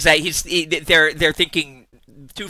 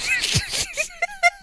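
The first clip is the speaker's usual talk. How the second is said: high squealing laugh burst; squealing giggle fit; shrieking laugh; 3 dB quieter than usual. Real, not acted. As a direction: let out a shrill laughing shriek.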